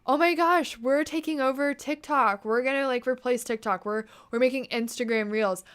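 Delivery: gushing mock announcement that settles down; mock excited boast. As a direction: imitate an overexcited company announcing itself. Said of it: "when Instagram was like".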